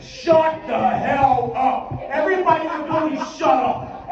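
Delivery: slow, drawn-out shout to silence the crowd; angry shout. Acted. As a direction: bark it slowly over the noise.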